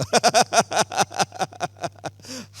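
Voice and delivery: long run of chuckles; amused, extended laughter; hearty laugh. Real, not acted. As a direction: laugh along with the congregation. Laughs after joking with congregation.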